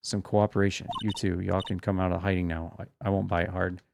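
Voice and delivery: a hint of a cranky Southern woman's drawl. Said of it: "southern folks talk with that exaggerated drawl".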